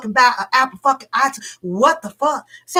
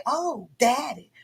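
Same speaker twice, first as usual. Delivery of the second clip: soft, sugary put-on voice; mock sweet girlfriend; 5 dB quieter than usual. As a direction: coo it to him, softly and sweetly. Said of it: "'cause I didn't say".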